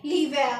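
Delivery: l'hiver said as lee-VAIR, silent h; French pronunciation. Shown as a demonstration. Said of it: "तो हम इसे पढ़ेंगे". (l'hiver को French में लीवेर बोलें)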